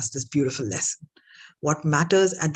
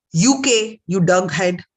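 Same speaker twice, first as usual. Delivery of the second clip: louder, fed-up snap back; exasperated retort; 6 dB louder than usual. Acted. Rich man snapping at the guest's repeated question. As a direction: let the irritation spill over.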